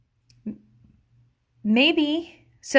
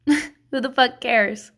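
slow emphatic; slower than usual. Real, not acted. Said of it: "repeated catchphrase".

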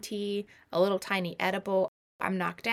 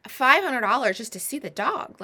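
higher and louder, incredulous at the price; shocked outrage; 5 semitones higher, 5 dB louder than usual. Real, not acted. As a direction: blurt it out in disbelief.

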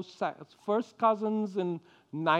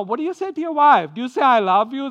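higher, louder, quick question; asking friends; 6 semitones higher, 9 dB louder, faster than usual. Retold or imitated. Preacher quizzing his African friends, a quick louder question. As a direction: fire off the question eagerly. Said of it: "and I would say".

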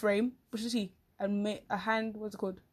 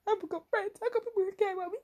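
laughing; 10 semitones higher than usual. Retold or imitated. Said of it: "I'm like".

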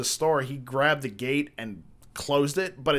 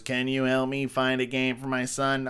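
voice box. Retold or imitated. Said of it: "puts it up to his throat".

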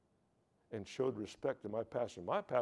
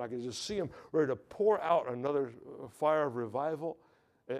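louder, rising revival preaching; 2 semitones higher, 4 dB louder than usual. Acted. Pastor stirring up the congregation about reformation, preaching hard.

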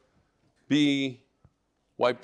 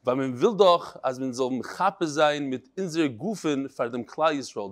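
Litvish Yiddish; 3 semitones lower than usual. Retold or imitated. Rabbi reads a martyr's last words to his class, Litvish Yiddish. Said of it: "in the Litvish Yiddish".

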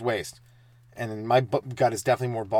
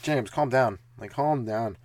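calming brother; slower than usual. Retold or imitated. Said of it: "my bro was like".

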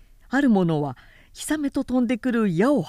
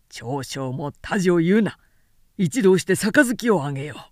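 lightly voiced firm lord. Lord overruling his retainer, firm commanding voice. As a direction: settle it with authority.

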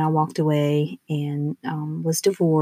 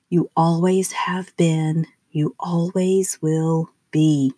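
slow soothing affirmation; slower than usual. Real, not acted.

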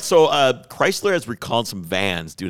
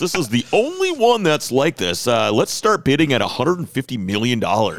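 auction announcer. Pretend. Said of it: "when you watch Mecum or Barrett Jackson".

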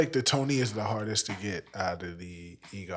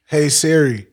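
mock British accent; 6 semitones higher, 14 dB louder, slower than usual. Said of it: "Put a British accent on".

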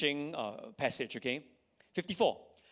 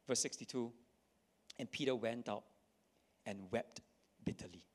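softer and softer, fading to near silence; solemn hushed reading; 6 semitones lower, 7 dB quieter than usual. Acted. Preacher reading Peter's bitter weeping to the congregation, hushed and fading. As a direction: let the sorrow sink the voice away.

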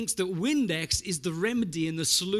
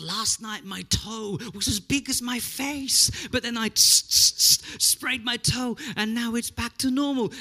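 put-on Greek accent; 6 semitones higher, 5 dB louder than usual. The Greek dad brags about his toe, thick Greek accent. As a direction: tell it proudly in a heavy Greek accent. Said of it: "with his deep Greek accent".

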